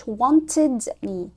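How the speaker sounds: "wanted me" with the T spoken clearly; careful T. Shown as a demonstration. Teacher asking why it is not "wanted me" with a full T. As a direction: say "wanted" with a crisp T. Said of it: "ليه ما قالش".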